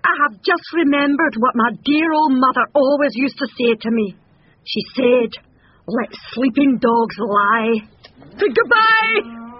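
hasty cowardly bluster; nervous excuse. A narrator's reading. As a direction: excuse yourself and get away. Frightened bull makes excuses and flees.

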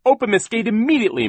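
fast, high, loud demand; shouting. A narrator's reading. Mister Poe demands the gate open, shouting. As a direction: yell a hurried order. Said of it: "Mister Poe shouted".

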